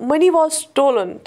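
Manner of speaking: very slow, clear example; slow model sentence. Shown as a demonstration. Teacher modelling the example, very slow. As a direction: say it word by word. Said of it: "हमने was इस्तेमाल".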